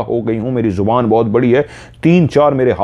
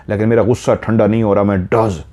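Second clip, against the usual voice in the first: normal talking voice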